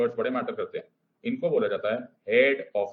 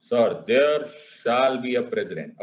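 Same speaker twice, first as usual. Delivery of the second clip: slow, weighty and louder; said loudly; 4 dB louder, much slower than usual. Acted. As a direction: declare it slowly, like a big pronouncement. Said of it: "जो आपने इतने जोर से बोला". (जोर से, धीरे-धीरे और भारी आवाज़ में)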